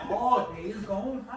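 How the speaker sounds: lightly imitated Southern lament; Southern accent. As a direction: imitate her slipping into Southern dialect. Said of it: "she came down like".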